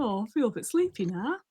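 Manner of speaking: drowsy squid murmur, voice only a little changed; lightly voiced drowsy squid. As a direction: let the squid drift toward sleep. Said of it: "you hear".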